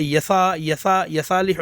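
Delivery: یسا with a short یا, not drawn out; wrong reading. Shown as a demonstration. Teacher mimics pupils' error, short یا in یصالح. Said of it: "نہیں پڑھنا ہے".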